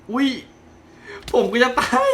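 normal talking voice

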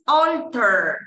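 "alter" slow, with a long drawn-out "al"; lengthened first syllable. Shown as a demonstration. Teacher modelling the long vowel mark, stretched "alter". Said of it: "esto es para alargar la sílaba".

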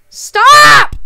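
sharp high yell of stop; real shout. Real, not acted. Streamer yells at troll in chat to stop, high shout. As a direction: yell it hard at the harasser.

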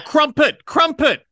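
squealed high and loud; high yelp. Real, not acted. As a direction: shriek the word in shock. Outburst after sexy sign-off.

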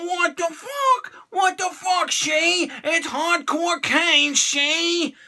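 high, stunned what-the-hell; surprised disbelief. Real, not acted. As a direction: sound baffled and shocked. Shocked at figure.

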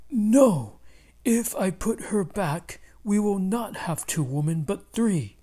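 husband backs away, loudly refusing; firm refusal. Acted. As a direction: refuse her, loud and alarmed. Husband refuses angry wife.

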